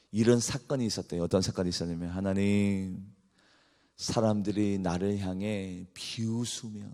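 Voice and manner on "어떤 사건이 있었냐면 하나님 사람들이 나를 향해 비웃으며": ordinary delivery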